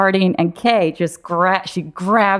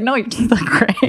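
higher-pitched, over-bright reassurance; falsely reassuring; 6 semitones higher than usual. Retold or imitated. Friend comforts her about missing teeth, falsely reassuring. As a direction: imitate a friend telling a kind fib. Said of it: "I just wanted you to feel good".

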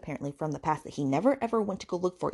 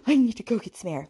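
high, loud, hammed-up fluster; mock distressed Pippa; 5 semitones higher, 5 dB louder than usual. Pippa upset at overhearing sex, mock-distressed. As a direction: imitate her dramatic need to escape. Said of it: "Pippa is all like".

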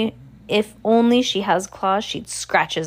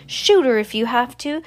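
high, louder barked order; angry shout; 6 semitones higher, 6 dB louder than usual. A narrator's reading. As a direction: bark the order. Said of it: "Mister Bailey shouts".

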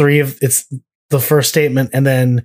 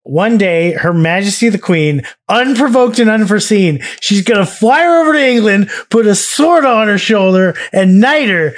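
excited rant; 5 semitones higher than usual. Pretend. Reciting lyric with rising excitement.

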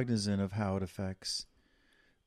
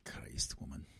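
put-on Scottish accent; 9 semitones lower, 12 dB quieter than usual. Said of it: "stick with your Scottish accent".

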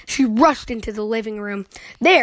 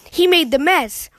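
sister crying out; 5 semitones higher than usual. Acted. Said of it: "cried sister".

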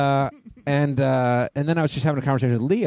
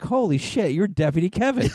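retold amazed realization; 6 semitones higher than usual. Retelling his moment of recognition.

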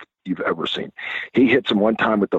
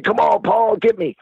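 mock taunt; 11 semitones higher than usual. Taunting Paul who can't run.

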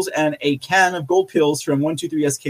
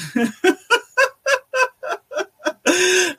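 high laugh; 13 semitones higher than usual. Real, not acted. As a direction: burst of high-pitched laughter. Laughing at the clone joke.

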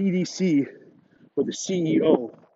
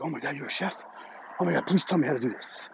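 mock pleading guys; 6 dB quieter than usual. Imitating the guys begging.

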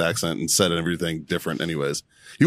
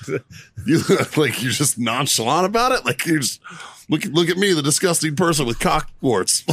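higher-pitched amused disbelief; mock incredulous; 6 semitones higher than usual. Peer marvelling at the Marine's openness, mock incredulous. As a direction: exaggerate your astonishment, half laughing. Retold astonished reply, mocking friend's ease.

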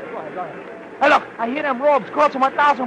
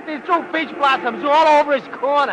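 laughing at it; 3 semitones higher than usual. Acted. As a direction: crack up while pointing it out. Fan laughing at peach blossoms.

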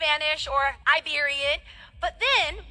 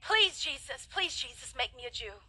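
softly pleading, fading down; a child's quiet begging prayer; hushed pleading prayer; 4 semitones lower, 8 dB quieter than usual. Retold or imitated. Child praying to Jesus, soft pleading.

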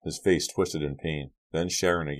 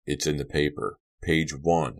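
flat. Acted. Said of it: "his father said flatly".

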